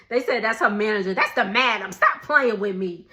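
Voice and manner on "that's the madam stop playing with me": laughing retort. Retold or imitated.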